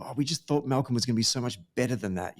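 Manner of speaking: mock disappointment. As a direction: imitate a let-down admirer, hurriedly. Mimicking disappointed paper's lament over Malcolm.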